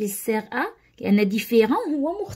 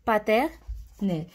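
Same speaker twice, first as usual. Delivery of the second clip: slowly stretched paternelle; much slower than usual. Shown as a demonstration. Teacher to pupils, dictating paternelle very slowly. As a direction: say paternelle very slowly, each syllable drawn out. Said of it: "On parle d'une maison".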